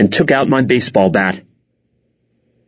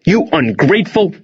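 higher-pitched angry accusation, cut off; spat out; 7 semitones higher than usual. A narrator's reading. Dad accusing his son, spitting it out. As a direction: spit it out, pitch raised. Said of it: "Dad spat".

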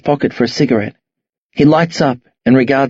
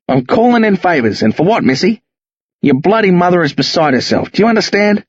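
rising angry rant; 3 semitones higher than usual. Acted. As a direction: dress them down, building. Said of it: "His voice rises steadily".

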